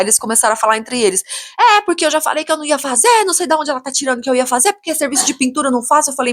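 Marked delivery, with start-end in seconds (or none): 1.6-6.1 high-pitched grumbling builder imitation; acting out defensive irritation; retold indignant complaint. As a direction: mimic a worker protesting his case. Builder complaining to uncle, acted out.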